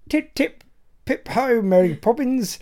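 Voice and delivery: caricatured British, starting high and dropping; mock British accent. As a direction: send up a ridiculously British chirp, lightly. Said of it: "ridiculously British-sounding person".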